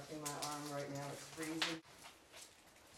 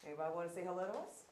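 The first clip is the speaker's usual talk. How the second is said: talking to a ghost. Real, not acted. Calling out to spirits in room.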